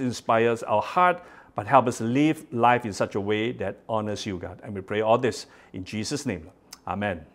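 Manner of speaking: gentle, reverent prayer. Acted. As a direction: pray it humbly. Leads a prayer.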